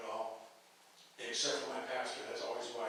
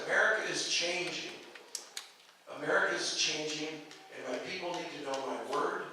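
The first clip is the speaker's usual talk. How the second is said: voice of God. Acted. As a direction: speak as God giving a solemn command. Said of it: "and the voice said".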